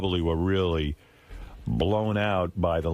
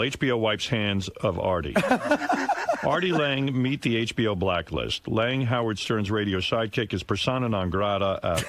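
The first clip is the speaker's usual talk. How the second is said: news-style read of a headline, laughing in places; reading the article. Acted. Reading a newspaper item aloud to the studio. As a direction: read the paper out to the hosts.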